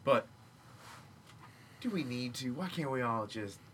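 laid-back mellow hippie, lightly voiced; a groovy peace-and-love dude pleading for chill. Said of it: "your hippie voice".

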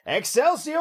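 high, loud triumphant cry; dramatic shout. Pretend. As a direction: cry it out like a grand declaration. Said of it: "most dramatic thing that you could say".

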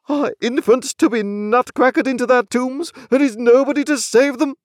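high, impassioned lament; hammed-up despairing outcry; desolate desperation. A narrator's reading. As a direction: appeal in despair to anyone who will listen. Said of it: "outbreak of desolate desperation".

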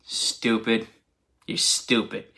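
hushed, soft mock put-down; mock Jesus retort, hushed and soft. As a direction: whisper it like a withering aside. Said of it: "Jesus turned around and he's like".

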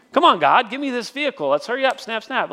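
mock-bossy prayer, pitched a little up; impatient demand. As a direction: hurry God along like an impatient customer. Acted bossy prayer for a car.

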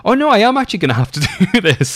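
high, laughing oh no; half-laughing panic at the realization; retelling the moment he realized he must deliver the baby, laughing; laughing dread. Retold or imitated.

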